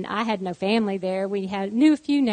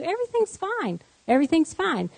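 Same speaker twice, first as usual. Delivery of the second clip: soothing reassurance; 8 semitones higher than usual. Retold or imitated. Church lady reassuring a frightened mother, soothing. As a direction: imitate calming a panicked friend. Retold soothing of panicked friend.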